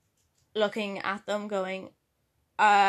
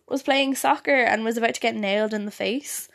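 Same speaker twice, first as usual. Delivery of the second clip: whisper; 3 dB louder than usual. Real, not acted. Whispered narration.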